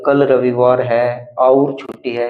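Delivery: slow "कल रविवार है और छुट्टी है" joined by "और"; wrong version with और. Shown as a demonstration. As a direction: show how odd "और" sounds. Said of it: "क्या हम यहाँ ऐसे बोलेंगे और". (गलत तरीका, "और" जोड़कर धीमे पढ़ना)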